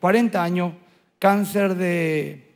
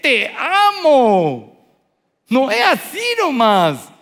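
voice breaking with emotion; 6 semitones higher, 6 dB louder, much slower than usual. Real, not acted. Pastor moved reading her message.

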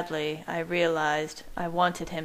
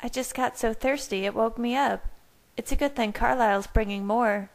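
lightly voiced higher character; Bella's voice; 5 semitones higher, faster than usual. A narrator's reading. Bella explains her thirst, in a higher character voice. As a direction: lift into her higher, chatty voice.

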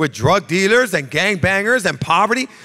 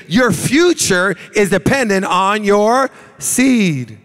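slow preaching emphasis; slower than usual. Acted. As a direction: preach it out slowly and hard. Preacher drives home key line.

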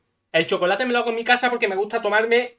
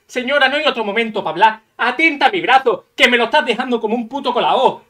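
loud telling off; 6 dB louder than usual. Retold or imitated. Telling off the distracted doctor.

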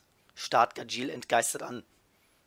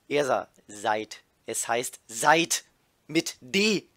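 louder and slow, hitting "seid" and "mit D" hard; irritated correction; 4 dB louder, slower than usual. Acted. Ersa correcting the same spelling again, louder and slow. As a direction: Ersa repeats herself, fed up, stressing "seid". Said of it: "nimmt noch mehr Abstand".

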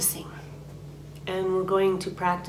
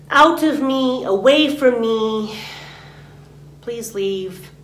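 louder push, then slowing on "away from me"; firm command; 4 semitones higher, 5 dB louder, slower than usual. Shown as a demonstration. Teacher commands the energy out of her, louder and firm. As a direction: send it out with force. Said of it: "You can say it out loud".

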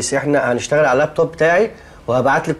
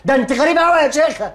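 exasperated; 9 semitones higher than usual. Acted. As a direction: lose patience with her, voice climbing high. Exasperated boss at slow typist.

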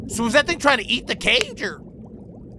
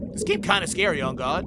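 ordinary talk

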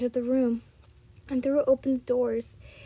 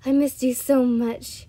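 mild moan; 7 dB louder than usual. A narrator's reading. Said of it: "he moans".

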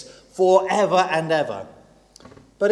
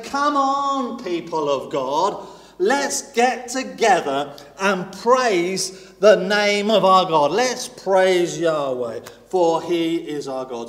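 rallying call; slower than usual. Retold or imitated. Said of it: "He's like saying".

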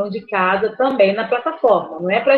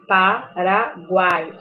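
"Paraguai" slowly split as pa - ra - guai; pa, ra, guai, one at a time; syllable by syllable; much slower than usual. Shown as a demonstration. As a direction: pause between each syllable of "Paraguai". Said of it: "A mesma coisa".

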